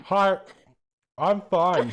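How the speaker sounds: talking through a mouthful of water; gurgling through water. Real, not acted. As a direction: gargle the words. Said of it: "You sound like you're choking on water".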